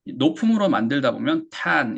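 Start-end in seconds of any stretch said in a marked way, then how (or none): 1.5-2.0 "탄" as ten with a long, open "a"; wrong A vowel. Shown as a demonstration. Teacher showing a common mistake, "탄" with a stretched A sound. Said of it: "알파벳 A처럼 발음이 되기가".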